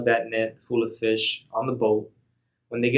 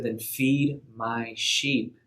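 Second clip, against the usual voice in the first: gentle, slow charge; much slower than usual. Acted. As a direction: weigh every word tenderly. Jesus answers Peter's third reply.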